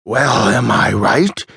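mildly frantic, slow rising question; frantic demand. A narrator's reading. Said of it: "demanded the old man in a frantic voice".

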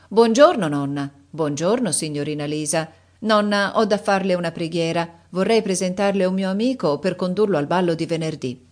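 a hint of a cheerful young man; young officer Tomsky. Grandson greeting his grandmother and Lisa, lightly voiced.

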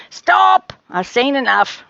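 high, loud command; abrupt halting cry. Acted. Rose stops Charlie dancing, high loud cry. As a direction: cut in loudly to halt it.

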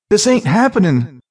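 high, disbelieving self-talk; telling himself. A narrator's reading. Thief facing advancing flames, telling himself in alarm. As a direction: insist on it in rising alarm. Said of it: "he told himself".

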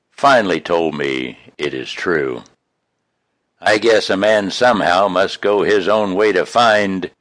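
earnest, reflective rhyming recital; poem recitation. Acted. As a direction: recite it like a hard-won confession.

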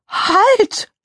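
high, urgent shout; called-out halt. Acted. Mickey Kuchen stopping Donald Rabbit from eating, shouting. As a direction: shout to stop someone. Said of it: "Mickey Kuchen rief".

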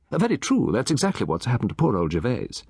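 put-on a chatty old gentleman relishing his tale; Satterthwaite. Satterthwaite agrees.

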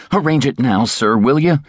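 begging. A narrator's reading. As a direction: urge him, pleading. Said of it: "he begged".

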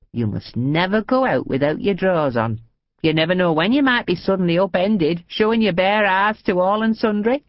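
naughty grandma lecturing; cheeky old lady. Acted. Old lady wags finger.

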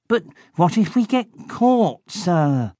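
high anxious little henchman; worried henchman. A narrator's reading. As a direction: fret about getting caught. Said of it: "Blood asked".

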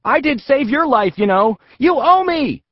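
put-on high, loud boy protesting; high indignant kid voice; Zach indignant. A narrator's reading. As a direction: remind him he owes you. Zach scolds his butt.

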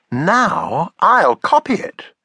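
put-on high eager little girl; child voice. Taffy copying her father's drawing: high eager child voice.

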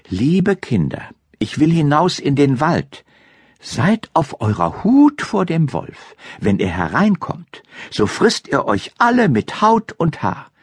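lightly voiced mother goat, earnest warning; caring mother goat. (leicht gespielte, mahnende Geißenmutter)

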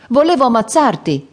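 light storybook cry, not real anger; mild narrated shout. A narrator's reading. Will telling Robin he almost killed him, a mild cry. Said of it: "gridò Will".

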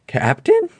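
high, trembling nervous call; a scared sailor calling out shakily; trembling whisper. A narrator's reading. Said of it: "a trembling voice whispered".

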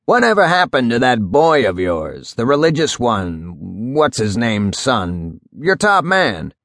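slowing, musing old judge, lightly acted; a touch of an old judge searching his memory; lightly voiced old judge. Judge asks after Clumley's man.

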